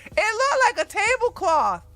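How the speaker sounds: high, loud mocking; mocking excitement. Real, not acted. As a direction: ridicule the dress, voice up high. Mocking Jill Biden's dress.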